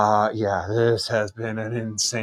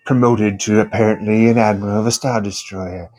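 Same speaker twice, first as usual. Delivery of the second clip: put-on measured, formal admiral voice with an accent; formal villain checking in politely; Grand Admiral Thrawn; 4 dB louder than usual. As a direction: play a courteous Star Wars Imperial officer. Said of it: "he was doing a character from Star Wars".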